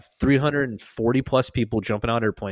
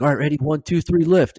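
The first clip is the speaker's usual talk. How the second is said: higher, louder count-off; retold lift count; 7 semitones higher, 5 dB louder than usual. Medic to chaplain and commander at the litter, calling the count. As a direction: imitate calling a team lift.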